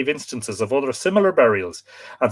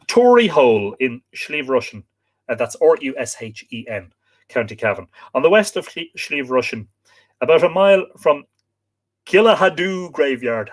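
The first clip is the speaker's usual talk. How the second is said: lifted, measured folklore reading; reading aloud; 2 semitones higher than usual. Acted. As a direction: read out a local legend to listeners. Reads folklore account aloud.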